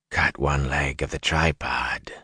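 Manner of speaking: slow, low, unvoiced rasping whisper; soft Fade whisper. A narrator's reading. The Myrddraal taunting Perrin, a slow rasping whisper. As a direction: whisper like dry rotted leather crumbling. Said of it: "it said softly".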